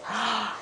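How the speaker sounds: soft breathy mock gasp; acted gasp. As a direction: draw in a soft storybook gasp. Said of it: "he goes like this".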